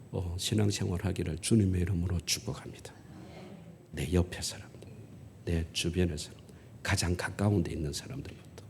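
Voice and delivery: hushed, breathy benediction; whispered blessing. Real, not acted. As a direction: bless them in a low whisper. Blessing the congregation softly.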